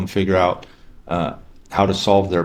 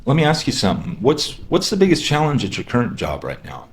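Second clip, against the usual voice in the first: curious and concerned. Shown as a demonstration. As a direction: ask like you really care. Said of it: "you ask it with some curiosity, with some concern".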